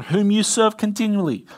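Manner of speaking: high, loud anguished cry to Daniel; anguished call. A narrator's reading. King calling down into the lion's den, anguished. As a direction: call out in anguish, fearing the worst. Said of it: "he called to Daniel in an anguished voice".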